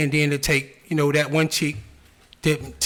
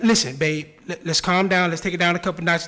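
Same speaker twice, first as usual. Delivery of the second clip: calm soothing; 5 semitones lower than usual. Retold or imitated. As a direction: talk her down gently. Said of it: "That's how he talk to his bitch".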